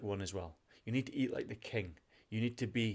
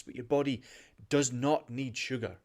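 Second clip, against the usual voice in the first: super passionate; 2 semitones higher, 3 dB louder than usual. Real, not acted. Podcast host warning listeners off sugar, super passionate. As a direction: drive each word home with conviction. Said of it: "I get super passionate about this".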